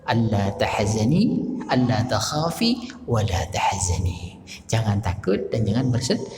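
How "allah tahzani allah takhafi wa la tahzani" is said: slow, measured Arabic recitation. Acted. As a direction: intone the verse gently and slowly. Reciting Arabic verse slowly.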